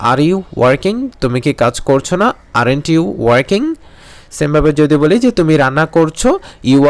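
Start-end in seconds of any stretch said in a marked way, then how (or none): 2.6-3.6 very slow, word by word; slow model sentence. Shown as a demonstration. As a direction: spell it out for the class. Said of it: "model sentence drill". (খুব ধীরে, প্রতিটি শব্দ আলাদা করে)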